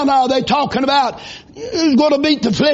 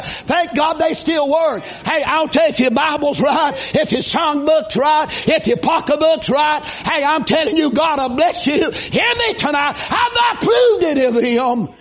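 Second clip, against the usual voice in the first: preaching at full force; 3 semitones higher than usual. Acted. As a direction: hammer it home like a revival preacher, climbing. Preacher exhorting the congregation.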